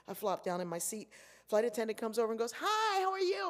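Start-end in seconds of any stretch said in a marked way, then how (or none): 2.6-3.5 loud greeting. Retold or imitated. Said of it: "Why are you talking so loud?".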